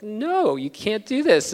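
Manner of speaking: put-on high, loud call after a runaway kid; a father's cry of "No", pitched high and loud; retold yell at son. Father yells after running son.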